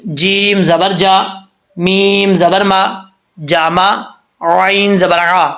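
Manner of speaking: جیم زبر جا, میم زبر ما, عین زبر عا each drawn out slowly; slow syllable spelling. Shown as a demonstration. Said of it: "آگے ہے جی،".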